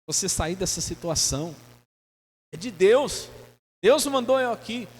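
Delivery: high, smooth tempter's offer; a sweet-talking stranger sells the lie; mock tempter, voiced well above the preacher's own; tempter's pitch. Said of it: "alguém disse".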